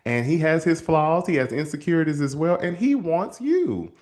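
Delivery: emphatic inner plea; inner exasperation. Retold or imitated. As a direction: argue it in your head. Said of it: "in my head too".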